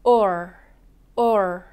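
or said slowly, a short 우 with the tongue curled back; 천천히 시범 발음 or; slow model or. Shown as a demonstration. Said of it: "선생님하고 바로 연습해 볼까요".

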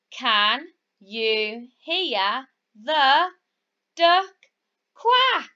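"quack" high and loud at the end; slow, building to QUACK. Shown as a demonstration. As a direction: stretch "Can you hear the" then pop "duck quack" high. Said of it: "keep count for me".

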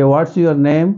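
slow, clear interview question. Shown as a demonstration. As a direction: ask it slowly and clearly. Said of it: "आप simply बताएंगे". (धीमा, साफ़ interview सवाल)

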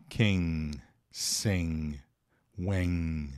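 quem, sem, when drawn out low, ending in "-ng"; nasal ending. Shown as a demonstration. Teacher shows where the word ends, nasal ending. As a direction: end quem, sem, when in the nose, no final G. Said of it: "Acaba aqui. Nada de botar".

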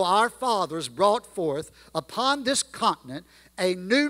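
reading the Gettysburg Address in a measured, stately cadence; formal recitation. Acted. Preacher reciting Lincoln's speech to the congregation, stately. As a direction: let each phrase land with weight.

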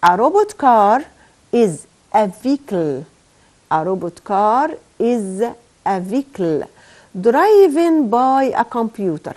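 slow dictation reading. Shown as a demonstration. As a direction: read it word by word, very slowly. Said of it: "الجملة هتبقى إزاي؟". (قراءة إملاء بطيئة)

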